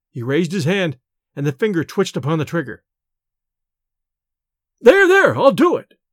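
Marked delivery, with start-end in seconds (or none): 4.8-6.0 high, loud panicked scream of surrender; shrieking give-in, much higher and louder; terrified scream. Acted. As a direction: scream it out, gun to your head. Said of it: "screamed Bellingham".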